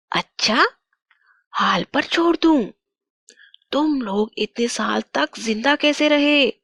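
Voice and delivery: lightly voiced witch taunting her captive; menacing witch. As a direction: threaten her with mock disbelief. (धमकाती हुई चुड़ैल)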